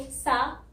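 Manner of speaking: 'सा' alone with long open 'aa'; syllable demo. Shown as a demonstration. Teacher breaks South into sounds, isolated 'सा'. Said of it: "आता है पहले तो".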